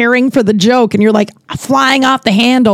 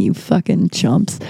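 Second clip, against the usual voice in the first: muttered insult; 3 semitones lower, 6 dB quieter than usual. Retold or imitated. Mock flirt turns to insult.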